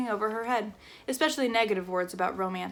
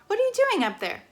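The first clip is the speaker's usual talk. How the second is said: mother shouting; 12 semitones higher, 4 dB louder, faster than usual. Acted. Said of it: "her mother shouted".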